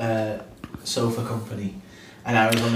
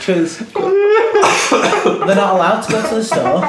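slow, high words through laughter; laughing at the absurd rule; 9 semitones higher, 5 dB louder, much slower than usual. Real, not acted. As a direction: force it out while cracking up. Laughing retelling the complaint.

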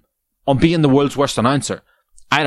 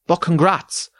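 mocking snide quote; 7 semitones higher, slower than usual. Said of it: "Top comment says".

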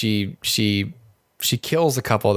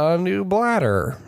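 mock mishearing; 6 semitones higher, slower than usual. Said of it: "I thought you were gonna say".

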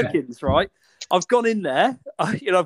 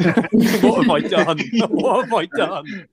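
laughing; much slower than usual. Real, not acted.

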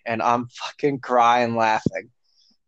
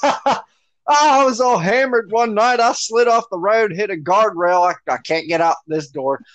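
mock drunk excuse; 5 semitones higher than usual. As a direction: play the drunk making excuses, fading to plain. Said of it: "what's your excuse".

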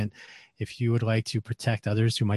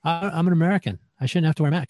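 higher, louder indignant whine; mock the entitled complainer; 7 semitones higher, 3 dB louder, faster than usual. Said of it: "having people that, uh, are up in arms".

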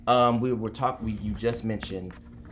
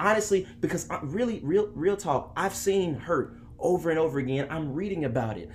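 voice of the hurt; 5 semitones higher than usual. Acted. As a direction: speak for the wounded with righteous anger. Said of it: "I want to play the voice of the hurt".

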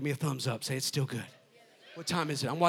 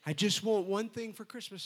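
soft imitation of a southern wife; southern wife impression; 4 dB quieter than usual. Husband mimicking his wife's Christmas request, soft southern voice. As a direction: mimic her southern plea softly. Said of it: "she's got this southern accent".

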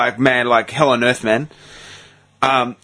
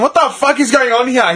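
bewildered retelling; 8 semitones higher than usual. Retold or imitated. Retells asking cousin in shock.

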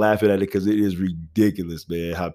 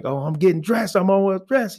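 mock uncle reply; 10 semitones higher than usual. Other uncle answering.

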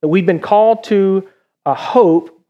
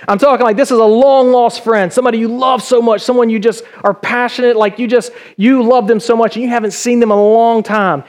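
excited anticipation; 3 semitones higher than usual. Pretend. Acting out love for long-lost friend.

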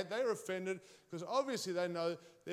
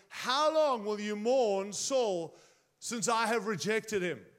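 voice of God; 4 dB louder, slower than usual. Acted. God's voice in retold scripture.

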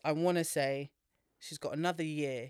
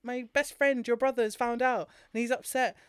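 parodying the heroine's tearful news; mock dramatic girl; 7 semitones higher, 4 dB louder than usual. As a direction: ham up the heroine's distress.

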